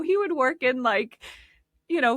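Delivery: ordinary talk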